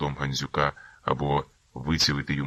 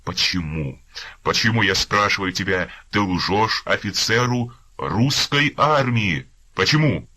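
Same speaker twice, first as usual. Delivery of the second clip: rising furious shout, louder; furious yelling; 5 semitones higher, 6 dB louder than usual. Acted. Captain yelling at the prisoner for lying, furious. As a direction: demand an answer, raging. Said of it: "скаженіючи від злоби, гукає".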